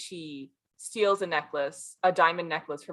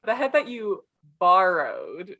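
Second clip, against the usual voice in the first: sarcastic air quotes; 5 dB louder, slower than usual. Retold or imitated. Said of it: "Giuseppe being like".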